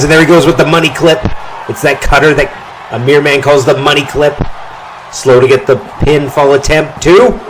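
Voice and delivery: excited call. Real, not acted. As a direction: build up to the two count. Calling the finisher and pin.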